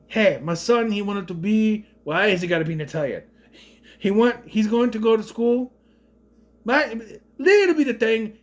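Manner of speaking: hammed-up Italian father on the phone; mock Italian accent. Geppetto imagined calling the school about his son, mock Italian accent. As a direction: explain it in a put-on Italian accent. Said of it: "is it my Italian accent".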